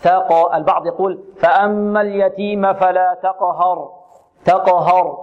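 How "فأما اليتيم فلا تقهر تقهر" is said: تقهر with a thick, dark "haw" on the ه; slow recitation, over-heavy ه in تقهر. Shown as a demonstration. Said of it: "إذن هنا نحذر من تفخيم الهاء".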